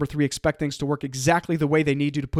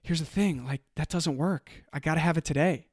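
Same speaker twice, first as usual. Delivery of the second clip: calm insistence; 6 dB quieter than usual. Retold or imitated. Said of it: "I literally just kept saying things like that".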